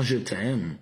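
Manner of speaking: slow, lingering declaration; with desire. Shown as a demonstration. Showing viewers how desire sounds, slowly lingering. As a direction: draw it out with desire. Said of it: "Avec désir".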